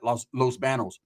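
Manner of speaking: "Los Banos" as Loss BAN-ohs, softly; anglicized pronunciation. Shown as a demonstration. Comic showing how white people say "Banos", BAN-ohs. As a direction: quietly mimic "Banos" with a flat American A. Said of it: "always say it like that".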